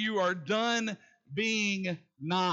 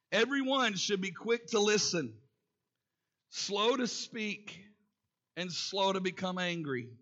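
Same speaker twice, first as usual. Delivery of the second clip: raised, measured pulpit reading of the verses; preacher reading James to the congregation, measured and raised; scripture reading; 3 semitones higher than usual. Acted. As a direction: read the Bible passage to the congregation with weight. Reads James chapter one aloud.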